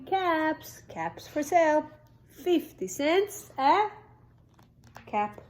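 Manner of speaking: peddler's street call. Acted. Peddler calling caps for sale in town. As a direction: call out wares. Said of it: "walked back to the town calling".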